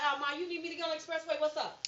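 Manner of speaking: fast, chirpy imitation of a grown daughter; daughters on the phone. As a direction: rattle it off like an eager daughter. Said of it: "They'll be like".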